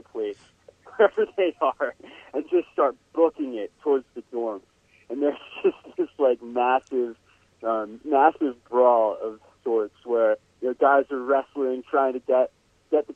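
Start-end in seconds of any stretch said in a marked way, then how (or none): none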